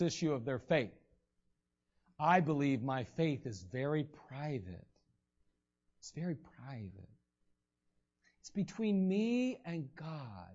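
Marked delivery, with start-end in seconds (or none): 2.2-10.5 lower, much softer, slow at the end; guard it like a secret; mock defensive. A Christian insisting faith is private, softly and defensively.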